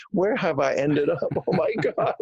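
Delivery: laughing, alarmed "oh my God" up high; a stunned newcomer hearing gunshots; shocked disbelief. Retold or imitated. Newcomer hearing shots in the neighborhood, laughing in alarm. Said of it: "I'm like".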